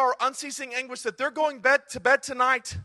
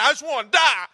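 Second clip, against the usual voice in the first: sulky Jonah; 2 semitones higher, 5 dB louder than usual. Acted. Jonah sulks.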